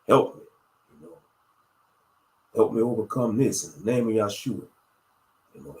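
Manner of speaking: starts whispered, then steady pleading prayer; spoken prayer. Shown as a demonstration. Models prayer after whisper.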